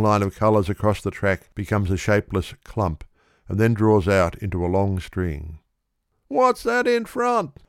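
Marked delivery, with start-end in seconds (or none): 6.3-7.6 high, slow, far-off call from the rails; yelling racegoer. A narrator's reading. Racegoer at the rails shouting a question about the leader. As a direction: call out over the crowd. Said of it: "yells someone at the rails".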